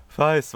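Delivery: "Fists" with an eye vowel, like "Feists"; sounds like "Feists". Shown as a demonstration. Podcaster repeating the misheard gang shout, "Fists" as "Feists". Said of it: "wie Fists anhört".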